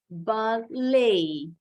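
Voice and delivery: Ballet said bal-LAY, silent T, weight on the second syllable; teacher models Ballet as ba-LAY, T silent, stress on the end; English word Ballet modeled ba-LAY with no T sound, second syllable stressed. Shown as a demonstration. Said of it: "penekanannya ada di suku kata kedua".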